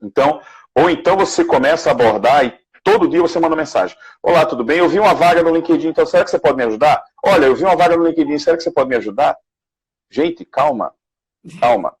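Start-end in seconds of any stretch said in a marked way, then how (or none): 4.2-9.3 rapid-fire mock pleading, pitched higher; imitated pestering. Imitating someone who messages every day, rushed pestering. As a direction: rattle off the request like a pest.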